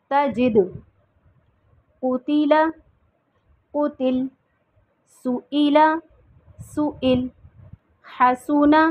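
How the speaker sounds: each word with final u, then stopped; crisp, emphatic drill pairs; drill recitation. Shown as a demonstration. Teacher drilling students on pausal forms, emphatic reading. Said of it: "आइए अब इसकी मश्क करते हैं".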